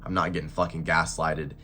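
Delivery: stuffy nose from a cold; talking through a blocked nose. Real, not acted. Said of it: "I literally can't breathe through my nose".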